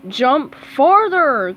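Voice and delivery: slow, drawn-out loud call. Acted. Squidward calling to Patrick mid-jump, slow loud call. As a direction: stretch it out across the field. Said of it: "called Squidward".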